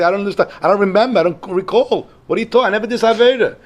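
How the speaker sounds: a bewildered soul begging not to be punished; pleading dead man. Retold or imitated. Dead man protesting to the heavenly court, high and pleading.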